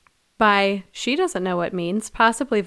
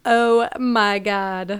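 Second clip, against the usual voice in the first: awed Oh my God; 4 dB louder, much slower than usual. Retold or imitated. Katara reacting to scroll.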